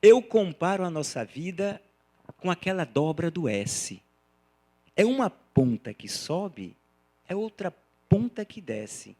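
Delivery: measured poem reading with pauses between lines; verse recitation. Acted. Lecturer reciting a poem to his audience, measured recitation. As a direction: recite it line by line, unhurried.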